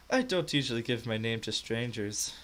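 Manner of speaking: put-on lightly Scottish serving girl; accidental Scottish accent. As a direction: slip unintentionally into a hint of Scottish. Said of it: "I didn't mean to do a Scottish accent".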